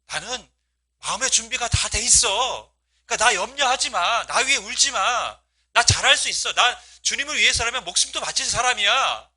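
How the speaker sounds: calm them, resolved and tender; Paul reassuring friends. Retold or imitated. (우는 동역자들을 달래는 바울, 높고 간절하게)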